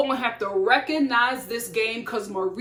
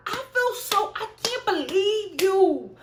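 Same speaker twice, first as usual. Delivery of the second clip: higher mock Jessica whine, louder on dude; imitating Jessica; 7 semitones higher, 3 dB louder than usual. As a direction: overdo her indignant complaint. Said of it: "Like, that's how you talk".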